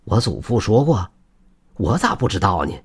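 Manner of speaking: mild puzzled surprise; understated astonishment; surprised question. Acted. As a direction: ask it taken aback, without raising the voice much. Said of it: "李老汉惊讶地问道".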